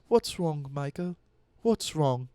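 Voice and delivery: lightly voiced worried mother; a hint of mock maternal worry; imitating worried mom. Mom assuming something's wrong when her son calls, mildly worried. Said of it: "she'll get worried".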